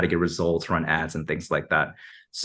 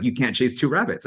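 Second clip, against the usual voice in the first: light put-on German accent, a bit higher; 5 semitones higher than usual. Retelling a German friend's advice, lightly imitated German accent. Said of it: "he just sounds straight like".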